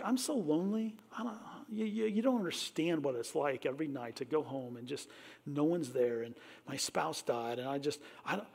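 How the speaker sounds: hushed, breaking confession of loneliness; softly voiced lonely griever; lonely whisper. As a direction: whisper it like a widow alone at night. Imagined lonely listener confiding.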